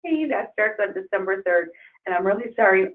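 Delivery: hoarse, strained voice; losing voice. Real, not acted. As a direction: push through a tired, hoarse throat. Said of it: "I'm losing my voice".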